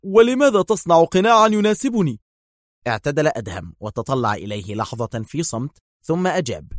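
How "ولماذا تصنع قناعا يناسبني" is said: high, louder puzzled question; puzzled surprise. A narrator's reading. Yael asks why the mask, puzzled and surprised. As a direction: ask it baffled. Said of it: "بدت الدهشة على وجه يائيل".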